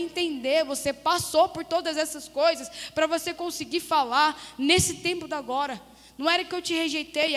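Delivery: insistent, emphatic retelling of God's words; pregação enfática. Retold or imitated. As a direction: build the explanation phrase by phrase. Preaches God's words forcefully. (pregação firme e insistente)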